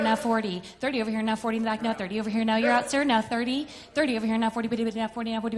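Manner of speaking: rapid bid-calling chant; auctioneer. Acted. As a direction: roll the numbers like an auctioneer.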